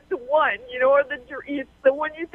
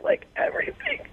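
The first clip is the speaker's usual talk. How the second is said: words lost in a high wail; crying; 3 dB quieter than usual. Real, not acted. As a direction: voice breaking high into a sob. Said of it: "laughing at you crying".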